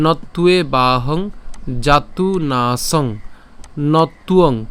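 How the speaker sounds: slow, measured shloka chant; Sanskrit verse recitation. Shown as a demonstration. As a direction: draw out each long vowel as you recite.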